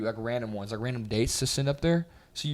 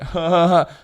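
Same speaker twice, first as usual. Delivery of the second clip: imitated "ha, ha, ha"; louder, higher put-on laugh of an amused senior; mock laugh; 5 semitones higher, 7 dB louder, slower than usual. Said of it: "He'd be like".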